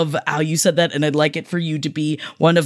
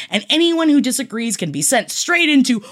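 mock threat; 5 semitones higher than usual. Playful threat ending the segment.

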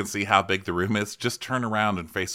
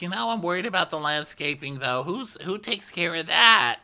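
imitating Denise; 9 semitones higher than usual. Host mocking Denise on the landscaping, high worried mock. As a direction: fret about the landscaping, pitched way up. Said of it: "so she's like".

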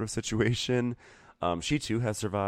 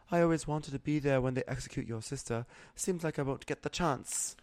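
a high, softer mock-icy Sansa line; 7 semitones higher, 4 dB quieter than usual. Podcaster imitating Sansa's frosty jab at Jaime. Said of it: "And Sansa's like".

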